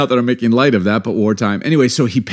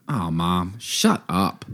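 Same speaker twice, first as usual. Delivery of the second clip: low, soft throwaway shut up; softly retold, almost affectionate; endearing; 4 semitones lower, 7 dB quieter, much slower than usual. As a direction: say it fondly, under your breath. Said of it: "endearingly, can you do that?".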